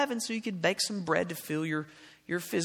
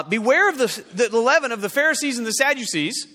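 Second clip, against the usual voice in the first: louder and quicker, pressing it home; louder, insistent pulpit warning; louder repeat; 5 semitones higher, 7 dB louder than usual. Shown as a demonstration. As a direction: say it again so they finally hear it. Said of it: "you missed it again".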